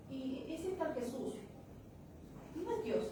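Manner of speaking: mock challenge, rising high on the denial; retold indignant challenge. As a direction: imitate someone getting worked up, mildly. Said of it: "Así grave, se me alzó". (imitando un reclamo indignado)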